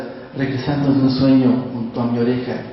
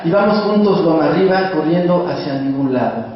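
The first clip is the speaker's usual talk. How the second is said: calm, measured reading of a sad memory; poetry reading. Acted. Continues reading the poem.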